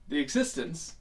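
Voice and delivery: put-on lightly done British accent, as a quoted lecturer. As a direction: imitate a British philosopher's speech. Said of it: "I just did a terrible accent".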